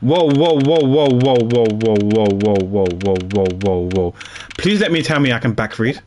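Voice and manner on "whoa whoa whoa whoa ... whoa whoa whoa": whoa repeated, sliding steadily lower; descending whoa chain; falling whoa. Real, not acted. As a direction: sink lower with each whoa. Text scrolling away, dropping pitch.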